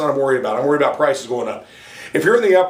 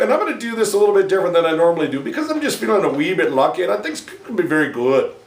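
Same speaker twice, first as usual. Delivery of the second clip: put-on Irish accent. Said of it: "we're gonna do just a wee bit of the Irish".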